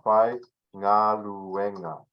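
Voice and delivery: Fai Ngaluenga drawn out slowly, syllable by syllable; slow pronunciation demo. Shown as a demonstration. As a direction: spell out 'Fai Ngaluenga' slowly for learners. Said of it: "I'll just say it like this".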